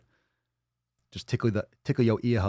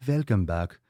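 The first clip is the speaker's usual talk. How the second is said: put-on German accent; slower than usual. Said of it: "with a German accent".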